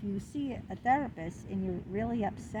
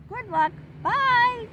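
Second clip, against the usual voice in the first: high, slow, sing-song brush-off; mock curt dismissal; 12 semitones higher, 6 dB louder, much slower than usual. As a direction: drawl the goodbye like a snub. Therapist's curt email mocked.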